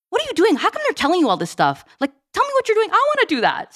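hammed-up husband wanting in; mock envious husband. Mother voices husband's puzzled envy.

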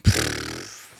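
low, dismissive pff of breath; scornful sigh. Real, not acted. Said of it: "t'as fait le pff".

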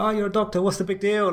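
high dismissive parent voice; parents scoffing. Retold or imitated. Parents mocking a doctor's worries, high and scoffing. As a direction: brush it off like an unimpressed parent. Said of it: "they'd be like".

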